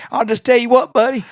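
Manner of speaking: imitating a furious dad woken late; mock outraged Southern dad; angry dad. Quoting angry Mackey.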